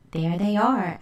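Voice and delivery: excitedly. Acted. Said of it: "thought excitedly".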